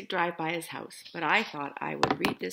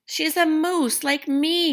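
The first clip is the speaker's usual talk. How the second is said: mild yell; 10 semitones higher, 8 dB louder, slower than usual. Acted. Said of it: "yelled Morris".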